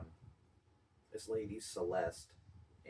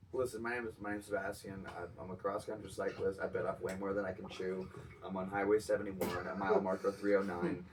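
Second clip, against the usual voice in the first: panicked caller; 8 dB louder than usual. Pretend. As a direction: beg for help, losing it to laughter. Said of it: "make the nine one one call".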